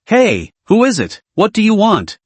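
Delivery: barked. A narrator's reading. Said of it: "barked into the receiver".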